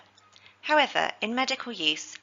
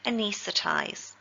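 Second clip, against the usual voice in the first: anaesthetize slow, stress on nees; slow teaching model of anaesthetize; stress on second syllable. Shown as a demonstration. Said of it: "with the stress again on the second syllable".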